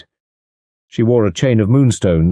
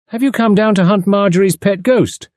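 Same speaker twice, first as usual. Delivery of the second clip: drawling voice; 12 semitones higher than usual. A narrator's reading. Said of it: "she asked in a drawling voice".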